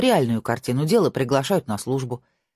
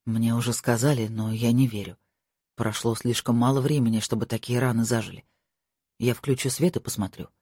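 lightly voiced young lord, lower; a hint of a worried lover; lower male voice; 4 semitones lower than usual. Marko voiced by narrator.

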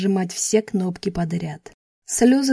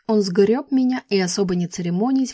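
ordinary delivery

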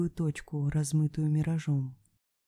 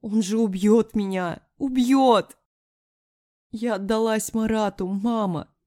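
high, loud, panicked cry; frantic confession to mother; desperate outcry; 5 semitones higher, 7 dB louder than usual. A narrator's reading. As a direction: cry out in terror for your life. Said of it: "взревела, будто раненый зверь".

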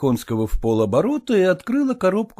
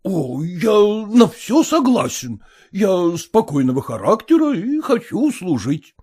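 put-on stiff elderly suitor; 6 semitones higher, 3 dB louder than usual. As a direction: recite the proposal like a form. Erekhonsky voiced.

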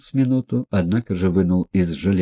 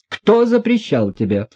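much higher, frantic demand; frantic shout; 12 semitones higher, 3 dB louder than usual. A narrator's reading. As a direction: yell it wildly. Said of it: "неистово крикнула". (неистовый крик, намного выше)

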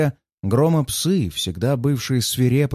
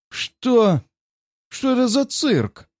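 high, furious roar; 10 semitones higher, slower than usual. A narrator's reading. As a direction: roar like a wounded tiger. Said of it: "Циван ревёт, как раненый тигр".

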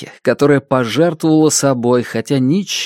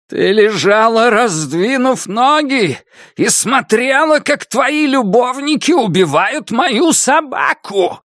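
growled; 11 semitones higher than usual. A narrator's reading. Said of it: "прорычала старуха".

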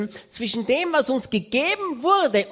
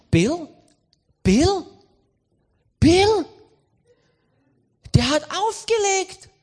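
rising, louder calls of Bill; calling out; 6 semitones higher, 5 dB louder, much slower than usual. Retold or imitated. Reinhard calling Bill after he hung up, louder each time. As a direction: call into a dead phone line.

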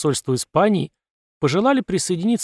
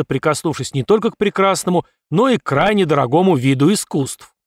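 pompous general; 4 dB louder than usual. Acted. General briefs the battalion.

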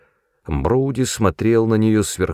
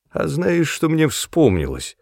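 put-on high, playful old woman; giggly tipsy; 7 semitones higher than usual. A narrator's reading. Tipsy mother teasing her son, giggly. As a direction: tease with a secret.

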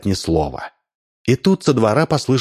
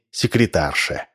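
usual speaking voice

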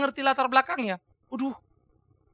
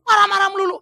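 louder, higher whiny jab; mock complaint; 8 semitones higher, 9 dB louder than usual. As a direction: whine it like a petty critic. Mocking complainers about anger. (keluhan mengejek, lebih keras dan tinggi)

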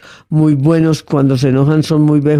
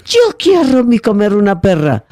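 a higher, lightly put-on Czech accent in Spanish; 6 semitones higher than usual. Czech boy asks the maid for a pear, Czech accent. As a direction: imitate a Czech speaker's broken Spanish, pitched up. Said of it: "llamó a la empleada".

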